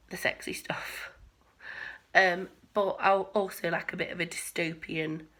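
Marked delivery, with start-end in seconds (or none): 0.1-1.1 coy whisper. Real, not acted. Coy mention of sex scenes.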